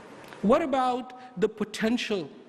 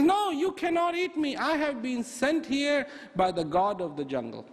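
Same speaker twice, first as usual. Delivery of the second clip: bunny insisting; 6 semitones higher than usual. Acted.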